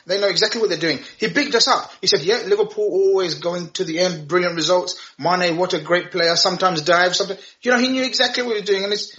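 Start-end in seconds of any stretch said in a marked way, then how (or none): 2.2-7.4 lightly attempted foreign accent, badly done; a half-hearted go at a foreign manager's accent; Pep Guardiola. Pundit quoting the manager on Liverpool, poorly imitated accent. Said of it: "Are you trying to do his accent?".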